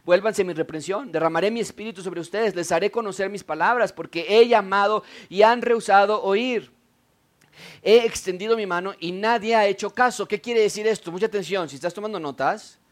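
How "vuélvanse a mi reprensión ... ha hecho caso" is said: wisdom pleading with the people, a bit higher and rising to loud; lightly voiced wisdom calling the people back; preacher voicing wisdom as a rejected caller; personified wisdom. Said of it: "Como si estuviera hablando a las personas".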